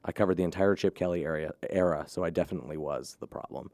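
hoarse voice, fading to a breathy rasp; raspy whisper. Real, not acted. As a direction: let the worn voice crack into a rasp. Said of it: "I have no voice right now".

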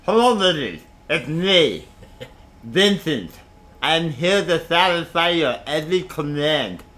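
a lightly voiced thick-tongued lover; slow, thick-tongued smooth talker; big-tongued voice. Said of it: "he'd talk like this".

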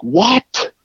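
high, exasperated mock fiancee; mildly voiced annoyed fiancee; imitating annoyed fiancee. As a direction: do the irritated fiancee, lightly. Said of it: "all annoyed".

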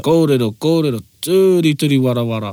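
turi stressed, wara falling away. Shown as a demonstration. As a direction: lean on the first turi. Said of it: "you heard that intonation in there and his stress".

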